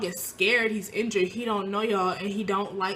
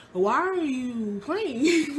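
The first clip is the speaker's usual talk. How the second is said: drawn-out, slow and higher disbelieving question; slow disbelief; 5 semitones higher, much slower than usual. Retold or imitated. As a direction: stretch each word out in disbelief. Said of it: "And I was like".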